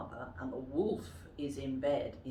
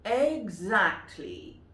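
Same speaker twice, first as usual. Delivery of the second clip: firm agreement; 3 semitones higher, 6 dB louder, slower than usual. Acted. Woodcutter answers the wolf.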